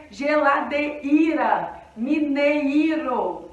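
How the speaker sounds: geladeira and mineiro with every vowel split and full; overarticulated. Shown as a demonstration. Teacher mocking the wrong way of saying both words. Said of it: "A gente não fala desse jeito".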